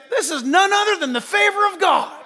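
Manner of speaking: loud, high proclamation; proclaiming. Retold or imitated. Quoted pastor proclaiming God's favor to the church, loudly. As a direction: declare it like a quoted preacher.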